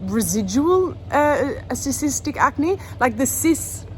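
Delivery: lisping around a retainer; retainer in mouth. Real, not acted. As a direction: talk with a retainer in. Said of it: "I know I'm talking funny 'cause I've got my retainer back in".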